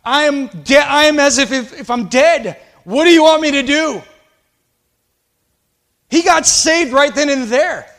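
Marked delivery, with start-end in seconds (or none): 0.0-4.0 retold tearful plea. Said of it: "This man bursts into tears".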